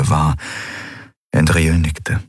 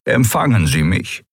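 put-on purring old Skria; 2 semitones higher than usual. A narrator's reading. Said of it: "schnurrte er".

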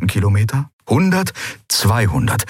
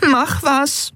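put-on high, urgent girl's plea; pleading high voice. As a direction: press them to act, much higher. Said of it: "drängte Nelen".

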